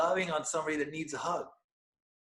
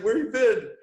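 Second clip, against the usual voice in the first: higher, louder call from the wife; loud, raised wife's question; 8 semitones higher, 8 dB louder than usual. Retold or imitated. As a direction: call out, where have you been. Wife quoted, excited.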